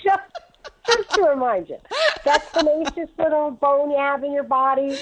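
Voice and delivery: high, laughing through the words. Real, not acted. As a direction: tease her daughter while cracking up. Teasing daughter, laughing.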